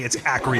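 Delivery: "acreate" said for "accurate", laughing; deliberate mispronunciation. Shown as a demonstration. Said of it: "I specifically wanna say".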